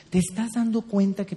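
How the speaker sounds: gentle. Shown as a demonstration. Coach showing wives how to ask, gently. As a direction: ask it softly without shouting.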